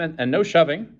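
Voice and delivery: curt official order; peremptory. A narrator's reading. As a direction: command the crowd curtly.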